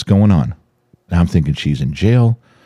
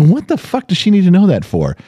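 angry; 11 semitones higher than usual. Retold or imitated. Woken at two, furious.

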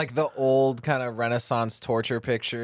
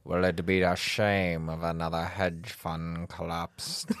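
serial killer voice; 2 semitones lower than usual. Pretend. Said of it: "my serial killer voice".

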